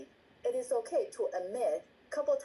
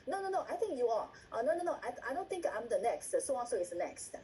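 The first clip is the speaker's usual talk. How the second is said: quick mock protest, rattled-off noes at first; mock arguing. Acting out members arguing over who's next, mock protesting. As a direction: lightly act out a back-and-forth squabble. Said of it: "they start to argue".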